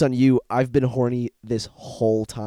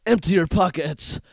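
gritted-teeth thug demand, higher; through gritted teeth; 7 semitones higher, 6 dB louder than usual. Retold or imitated. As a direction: hiss it through clenched teeth. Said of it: "they all sound like they're talking through their teeth".

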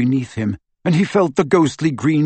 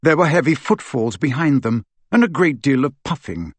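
usual speaking voice

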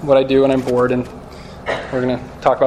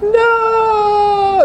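Simba. Acted. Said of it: "Simba going".

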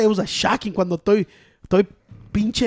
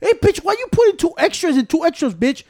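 retold call-out; 9 semitones higher, 4 dB louder than usual. Retelling calling out his friend.

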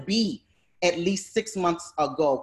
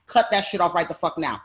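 retold angry order; 3 dB louder than usual. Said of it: "I go in and I'm like".

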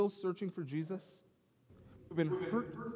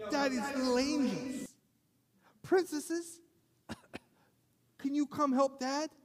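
sweet-talking dad; 9 semitones higher than usual. Retold or imitated. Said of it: "And I call my kids".

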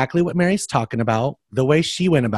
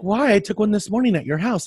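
indignant friend; 7 semitones higher, faster than usual. Retold or imitated. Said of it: "She's like".

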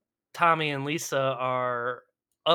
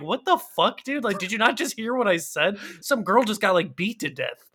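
mock outrage; 5 semitones higher than usual. Podcaster voicing viewer disgust at Johnny, higher mock outrage. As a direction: act baffled and outraged. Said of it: "It's like".

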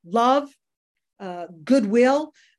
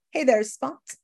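glib; 3 semitones higher than usual. Retold or imitated. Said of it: "I'm all glib".

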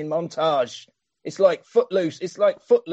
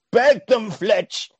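mock scolding; 8 semitones higher, 5 dB louder, much slower than usual. Brother quoted scolding.

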